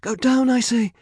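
high, loud insistent order; commanding. A narrator's reading. Medea to the disobedient dragon, commanding loudly. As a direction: shout the order and demand obedience. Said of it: "she commanded".

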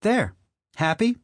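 put-on high, loud defiant old woman; mother voice. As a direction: snap it back like a bitter mother. Mother snaps back.

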